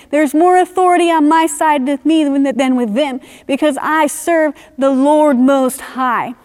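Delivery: a believer boldly declaring God is on their side. Pretend. Believer's bold declaration of faith.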